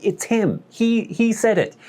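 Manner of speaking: mildly panicked whisper-free denial behind his back; frantic denial. Retold or imitated. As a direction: wave it off, it wasn't me. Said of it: "gesticulating wildly behind".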